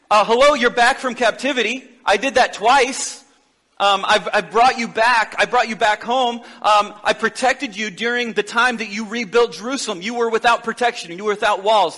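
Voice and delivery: lightly voiced exasperated God. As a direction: remind them with mild exasperation. God lists his deeds.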